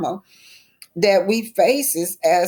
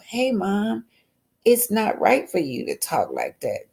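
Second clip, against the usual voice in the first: scolding; 4 semitones higher than usual. Acted. Scolding a commenter.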